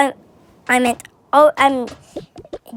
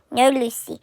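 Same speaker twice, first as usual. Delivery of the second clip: refusing dad; 5 semitones lower than usual. Pretend. Pretend dad refusing Lucy.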